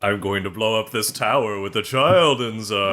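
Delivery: default villain voice. Acted. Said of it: "default villain voice".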